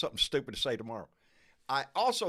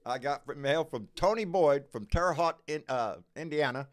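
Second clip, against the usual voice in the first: tongue-tied. Real, not acted. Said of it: "my mouth is all screwed up".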